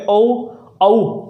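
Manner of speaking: औ stretched from अ toward ऊ; diphthong demo. Shown as a demonstration. Teacher repeating the vowel for students, gliding demo. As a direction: let औ glide toward a rounded ऊ. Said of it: "औ बोलेंगे".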